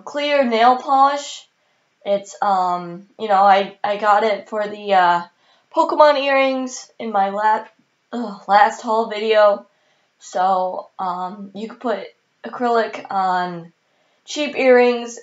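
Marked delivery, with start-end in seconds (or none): 5.8-9.7 hiccup breaks the word. Real, not acted. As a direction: talk through hiccups. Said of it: "Please excuse my hiccups throughout this video".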